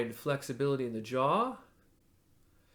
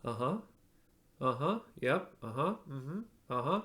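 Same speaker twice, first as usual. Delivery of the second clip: agreeing uh-huh. Shown as a demonstration. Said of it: "agreeing with somebody without saying yes".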